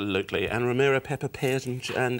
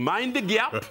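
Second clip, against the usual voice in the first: higher, lightly mimicked train announcer; station announcer impression; 8 semitones higher, much slower than usual. Host recalling old train announcements, mock announcer call. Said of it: "one of my sort of black brothers saying".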